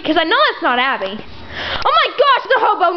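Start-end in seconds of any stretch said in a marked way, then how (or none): 1.8-3.0 shocked. Acted. Shocked at finding the hobo.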